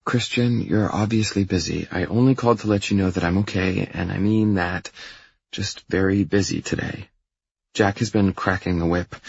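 lightly voiced young woman; a hint of a female character voice; reassuring girlfriend. Girlfriend reassures him by phone.

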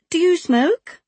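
high, eager question; bright surprise. Acted. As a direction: ask with delighted curiosity. Mother asks eagerly, high.

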